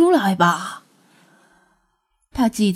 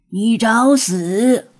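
enraged roar; 4 dB louder, much slower than usual. Acted. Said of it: "恼羞成怒，高声嘶吼着".

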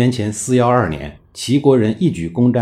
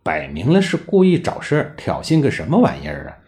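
indignant; 5 semitones higher than usual. Acted. Acted indignant inner thought of minister.

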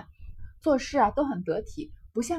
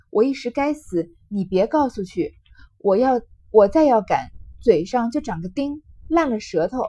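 loud, hurried apology; panicked pleading; 7 dB louder than usual. Acted. Baoyu chasing his cousin, pleading in a panic. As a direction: beg her forgiveness in a panic. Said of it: "心下慌了，忙赶上来".

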